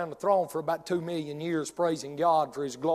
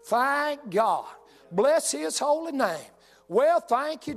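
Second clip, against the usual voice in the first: high whooping cry of praise; joyful praise; 5 semitones higher, much slower than usual. Acted. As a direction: shout for joy like a rejoicing mother. Mama rejoicing at son's return.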